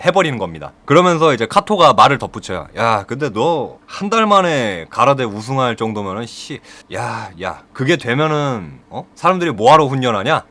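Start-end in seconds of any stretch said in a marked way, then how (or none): 2.8-10.4 lightly acted sarcastic taunt; sneering sarcasm. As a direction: needle him with mild scorn. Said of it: "이런 식으로 막 비아냥대요".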